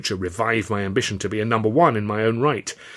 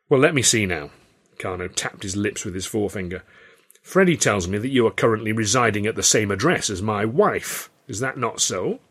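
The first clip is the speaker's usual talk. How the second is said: put-on old showman voice. Carno's voice.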